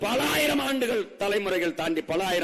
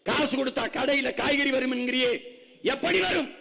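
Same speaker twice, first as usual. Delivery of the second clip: fiery rhetorical questions; 6 semitones higher than usual. Real, not acted. Orator challenging the crowd on where food comes from, rising passion. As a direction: fire the questions up at the crowd, climbing.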